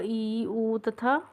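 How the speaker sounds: ई and उ drawn out slowly; slow vowel demo. Shown as a demonstration. Teacher listing short vowels for the class, slowly. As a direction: spell out ई and उ slowly. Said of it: "और अ".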